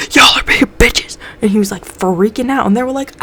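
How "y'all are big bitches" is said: slow whispered jab; whispered insult. Retold or imitated. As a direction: hiss it under your breath. Mulder insults the group.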